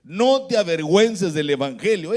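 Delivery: strong, insistent pulpit delivery; emphatic preaching. Retold or imitated. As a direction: proclaim it to the congregation. Preacher repeats the message emphatically.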